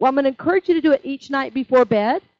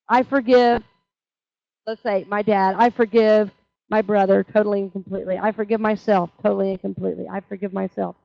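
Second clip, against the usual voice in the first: forgiveness demonstration; 4 semitones lower than usual. Shown as a demonstration. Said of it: "So that's the way I do it".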